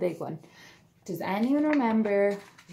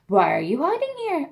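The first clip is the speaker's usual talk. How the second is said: kind; 4 semitones higher, 6 dB louder than usual. A narrator's reading. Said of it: "asked the swan kindly".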